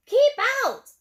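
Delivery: yelled. A narrator's reading. Cactus yelling at the tortoise to keep out. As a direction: bark them off the property. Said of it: "yelled Hank".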